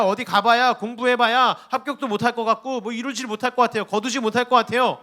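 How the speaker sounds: high-pitched mock lament to God; acted complaining. Believer telling God why trying is useless, acted complaining.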